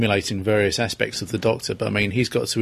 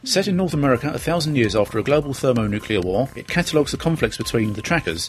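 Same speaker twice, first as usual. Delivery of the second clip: recommendation read. Acted. Reads a book recommendation.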